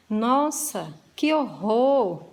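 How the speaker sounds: horrified exclamation. Shown as a demonstration. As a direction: exclaim it as if shocked by something nasty. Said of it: "uma entonação que vai demonstrar o nosso sentimento". (exclamação de horror, mais alta e lenta)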